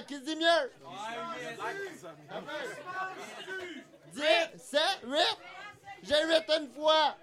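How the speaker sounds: auctioneer calling out bids. Pretend. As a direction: call each bid like an auctioneer. Runs a mock auction.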